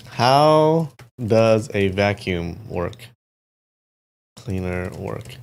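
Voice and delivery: slow, deliberate words for voice input; slow dictation to a voice assistant; dictating slowly. Real, not acted. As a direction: speak it out slowly for the machine. Dictating a question to the AI.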